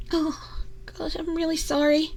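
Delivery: hushed whisper, ashamed; whispered apology. Acted. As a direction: whisper it, embarrassed and sorry. Ashamed apology after being caught.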